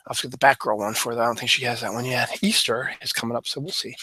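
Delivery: short of breath, breathy between words. Real, not acted. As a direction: talk while winded, catching breath. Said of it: "I'm short of breath".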